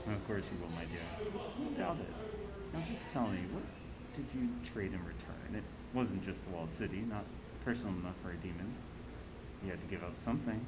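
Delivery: a hint of a shrewd auntie, lively pitch swings; lightly played scheming matriarch; lightly voiced crime-boss auntie. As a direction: lightly act a knowing boss weighing up an ally. Voices Auntie Cheng questioning Slain.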